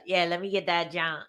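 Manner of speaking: lightly attempted Maryland accent. Shown as a demonstration. Marylander trying the lost accent, half-hearted Maryland accent. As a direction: draw it out a little, Maryland style. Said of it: "I can't even talk like that anymore".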